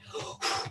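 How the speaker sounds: blown-out puff of air; out-of-breath puffing. Pretend. Storyteller winded by the walking game, puffing. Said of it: "getting out of breath here".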